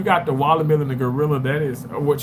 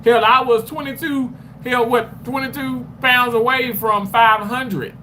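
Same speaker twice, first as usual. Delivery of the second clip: out of breath; 8 semitones higher than usual. Real, not acted. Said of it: "I sound out of breath".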